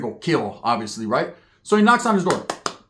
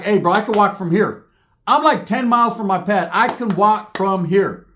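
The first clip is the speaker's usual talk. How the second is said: anxious pleading; 4 semitones higher, 4 dB louder than usual. Retold or imitated. Pleading to get out of it.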